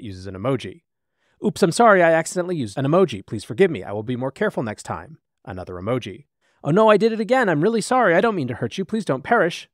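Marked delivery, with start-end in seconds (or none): 1.4-5.2 mock panicked apology. 6.6-9.7 hammed-up panic, higher and louder; mock frantic apology. AI chatbot apologizing again, escalating.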